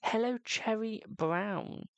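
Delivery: high, slow, careful hello; high-pitched deliberate greeting; corrected greeting. Real, not acted. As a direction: greet slowly in a high voice to make amends. Redoes greeting after wrong name.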